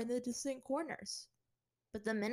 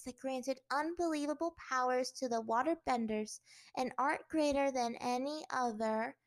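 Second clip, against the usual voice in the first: reading aloud; 3 semitones higher, 4 dB louder than usual. Acted. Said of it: "looked down at her papers and read".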